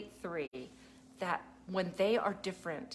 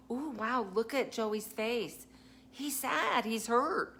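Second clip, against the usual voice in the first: put-on higher, drawn-out teacher talk to a small child; concerned pointing-out; 4 semitones higher, slower than usual. Teacher showing a child Joey's face, concerned. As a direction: gently show a child someone is hurt, pitch lifted.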